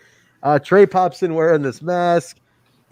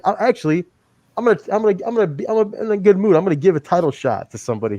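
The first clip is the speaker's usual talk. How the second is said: mock boastful wrestler; 6 semitones higher, much faster than usual. Imitating Moose's boast.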